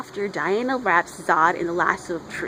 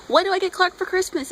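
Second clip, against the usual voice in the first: high, bubbly mock girl-talk; girly friend voice; 10 semitones higher than usual. Friend asking Diana about a Christmas gift, high and giddy. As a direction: squeal the question like a giddy friend.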